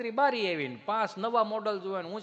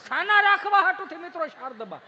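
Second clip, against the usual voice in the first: indignant stress; 9 semitones higher, 7 dB louder than usual. Real, not acted. Stressing the four slaps.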